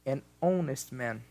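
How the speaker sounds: an honest man, said slowly with the h silent; slow model sentence. Shown as a demonstration. Teacher models the example slowly for students. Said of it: "Aqui vai ter uma exceção".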